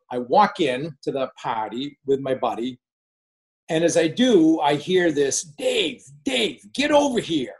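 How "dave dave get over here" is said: high-pitched imitation of a shouted summons; boss calling out. Boss summoning Dave at the party, mock shout. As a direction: holler across a room without real volume.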